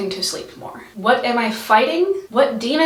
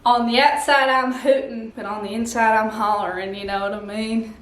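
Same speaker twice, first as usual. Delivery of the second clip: put-on terrible Texan accent. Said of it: "this terrible accent".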